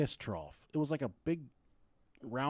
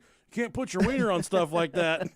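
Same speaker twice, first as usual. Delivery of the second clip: lightly voiced dad, higher pitched; imitated scolding dad; 4 semitones higher, 4 dB louder than usual. Dad to son after the trough, mock scolding. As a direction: scold like a dad, half playing it.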